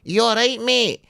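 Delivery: high mock Glaswegian shout; heckler shout. Comic retells audience member calling out, aggressive-sounding friendly shout. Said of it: "all he shouted out was".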